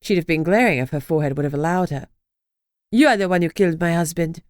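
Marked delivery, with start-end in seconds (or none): 2.9-4.4 put-on a French accent, light and bitter; spat, French accent. French ex-wife accusing Lucy, French accent, bitter. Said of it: "she spat in a French accent".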